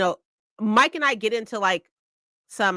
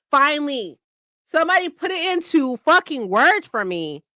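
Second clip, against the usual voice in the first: higher relieved exclaim; a touch of joyful relief, pitched up; relieved finally; 7 semitones higher than usual. Retold or imitated. Remembering the girl's words, relieved and pitched up. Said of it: "I was like".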